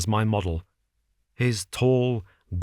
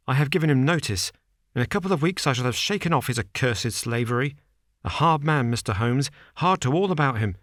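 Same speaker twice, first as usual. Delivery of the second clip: higher, hurried, agitated man; nervous Bates; 4 semitones higher than usual. Acted. Nervous manager warns Holmes against his employer, hurried. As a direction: rush it out, anxious.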